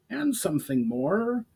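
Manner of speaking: high gruff goblin voice; a suspicious goblin grunting; Brawl, grunting goblin. A narrator's reading. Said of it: "grunted Brawl".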